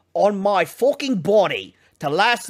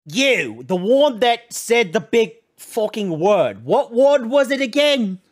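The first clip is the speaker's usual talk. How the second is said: voiced teacher; 5 semitones higher than usual. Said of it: "the teacher go".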